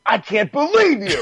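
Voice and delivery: high, laughing I can't believe you; half-laughing mock outrage at a friend; high-pitched laughing accusation; laughing disbelief. Shouting at friend after show.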